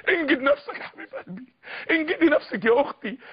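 crying as he pleads; tearful plea. Real, not acted. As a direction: beg them through tears. Tearful appeal to listeners. (رجاء باكٍ)

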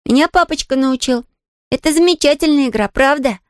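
put-on girl eagerly tells the maid about the game; eager, heated. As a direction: press it on her with real fervour. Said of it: "жаром сказала Полианна".

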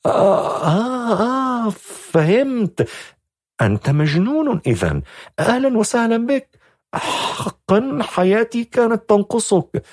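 high, sarcastic welcome; mock him as a madman; sarcastic young woman. A narrator's reading. Exasperated young woman mocking the stranger as crazy, high. Shadha's voice.

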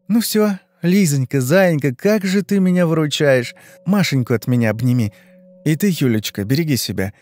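a hint of a tipsy, gushing goodbye; gushing friend. Yulka's gushing farewell.

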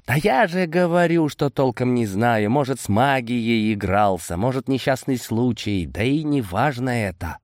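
lightly voiced Boris, starting high; dismissive Boris. Boris tells Amadei he doesn't know, mildly dismissive. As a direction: start high and brush the question off.

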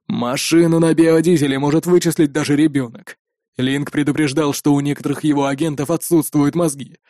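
lightly voiced cold villain; scornful raider. Raider scolds the careless biker gang, restrained scorn. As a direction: dress them down without raising your voice.

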